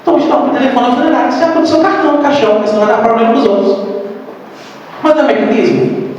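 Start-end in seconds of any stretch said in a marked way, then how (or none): 0.0-3.9 mock blunt scolding.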